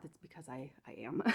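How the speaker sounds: breathless, a bit winded; out of breath. Real, not acted. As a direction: speak while catching breath. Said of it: "So if I sound really out of breath".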